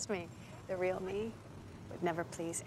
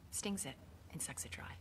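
menacing whisper; 3 semitones lower, 10 dB quieter than usual. Acted. Acting scene, menacing whispered line.

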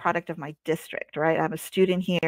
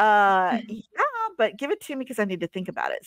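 stalling high-pitched yeah, then quicker excuse; hesitant agreement; 4 semitones higher than usual. Retold or imitated. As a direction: put on a hesitant, squeaky yes. Acted hesitant reply to request.

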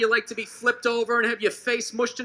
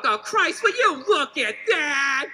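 grumbling dad impression; 2 semitones lower than usual. Dad grumbles at his son over a broken thing, lightly voiced. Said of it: "He'd see something broke".

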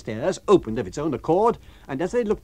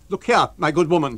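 louder, patronising lodger; stranger, condescending; 4 semitones higher, 8 dB louder than usual. Acted. Lodger lecturing the landlady. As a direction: talk down to her.

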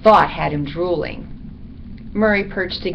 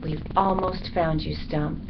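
soft, tender near-whisper; quiet private promise; 7 dB quieter than usual. A narrator's reading. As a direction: hush it as if to an absent friend. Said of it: "the good dog whispered".

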